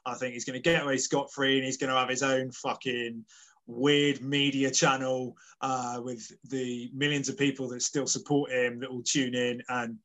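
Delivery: low, sincere prediction; serious. Real, not acted. Host giving co-host a genuine verdict on the impeachment, serious and low. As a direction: give your genuine opinion, no joking. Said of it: "that was me being serious there".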